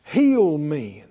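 loud, high, commanding prayer over the body; fervent loud healing prayer; preaching at full force. Acted. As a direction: command the organs to heal with full preaching fire.

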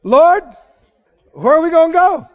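high, loud, laughing Peter; Peter piping up. Retold or imitated. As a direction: blurt it out like an eager disciple. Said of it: "Peter pipes up".

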